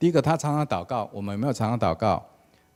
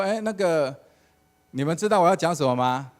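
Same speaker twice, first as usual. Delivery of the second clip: hesitant pastor; 6 semitones higher, 6 dB louder than usual. Retold or imitated. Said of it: "然后他又说".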